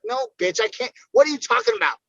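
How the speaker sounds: loud, high mock brush-off to a friend; fed up, snapping at a friend who wants in; mock retort. Fighter answering a ticket-begging friend, loud and exasperated.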